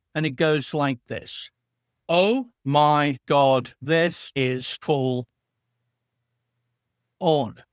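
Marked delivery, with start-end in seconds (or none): 2.0-7.4 very slow, stretched-out, drawn-out phrasing. Guide says a phrase for a listener to rehearse in their head, slowed-down phrasing. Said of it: "I want you to slow down the phrase".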